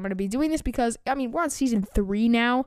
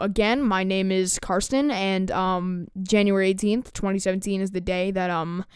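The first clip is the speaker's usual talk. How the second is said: mocking his younger self; slower than usual. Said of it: "I'm like, um".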